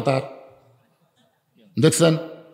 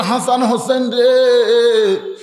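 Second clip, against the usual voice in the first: tender avowal; 3 semitones higher, slower than usual. Acted. Prophet embracing grandsons, acted by preacher.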